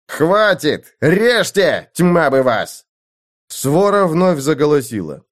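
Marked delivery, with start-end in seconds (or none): 0.1-2.9 выше и громче, властный приказ; оборви их криком; гневный окрик. Acted. Мартин обрывает мольбы криком. (Мартин кричит на лучников)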